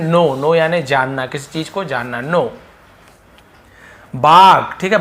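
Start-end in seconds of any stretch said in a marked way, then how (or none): 0.0-0.3 "नो" starting straight on the n; silent K. Shown as a demonstration. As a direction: say know as "नो", no k sound. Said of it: "के silent है". ("नो" में क की आवाज़ नहीं)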